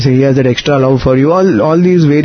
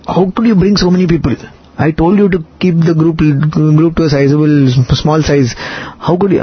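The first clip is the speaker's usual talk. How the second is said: mock upset; 2 semitones higher than usual. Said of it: "he was extremely upset".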